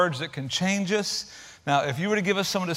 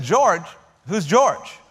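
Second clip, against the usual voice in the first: mildly baffled, louder questioning; puzzled retort; 2 semitones higher, 4 dB louder, much slower than usual. Retold or imitated. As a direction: act out a confused daughter. Daughter puzzled in told joke.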